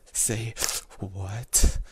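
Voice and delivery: broken in two with a loud, rising "what?"; trembling. A narrator's reading. Narrator dares to ask him, trembling. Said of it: "My voice is trembling".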